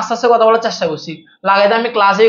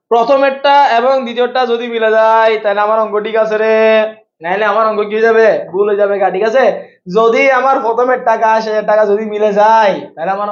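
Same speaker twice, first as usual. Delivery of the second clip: waz preacher style. Shown as a demonstration. Teacher jokingly warning students about their sums, waz preacher chant. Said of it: "আমি একটু ওয়াজের style একটু বলে".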